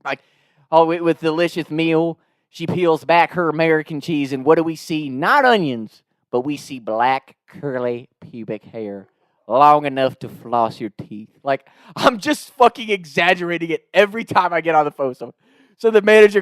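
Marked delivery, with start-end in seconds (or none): 0.7-11.3 deadpan Southern complaint, slowing and dropping; Southern twang. Retold or imitated. Prank caller describes the ruined meal, Southern twang. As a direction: spin it out as a Southern storyteller. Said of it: "build it to this, like, even worse".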